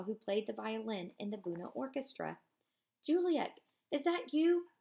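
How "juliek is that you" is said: high, raised call into the dark. Acted. Eliezer calling for Juliek in the dark, high and raised. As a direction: call a friend's name across the crush.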